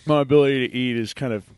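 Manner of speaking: talking with a mouth full of pie. Real, not acted. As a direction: talk through the pie. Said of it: "my mouth is really full of pumpkin pie".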